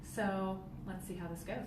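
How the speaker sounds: lo-fi headset mic sound; recorded through headphone mic; headphones used as mic. Real, not acted. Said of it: "using my headphones as a mic".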